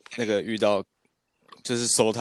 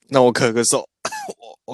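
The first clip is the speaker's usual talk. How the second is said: coughing between words; throat tickle, coughing it out; 3 semitones higher, 3 dB louder than usual. Real, not acted.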